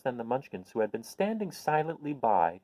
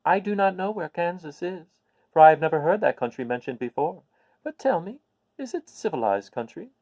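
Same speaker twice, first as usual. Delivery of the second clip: put-on higher, kindly old witch telling news; a little old witch, pleased to share good news; 7 semitones higher, 5 dB louder than usual. Witch asks about Kansas.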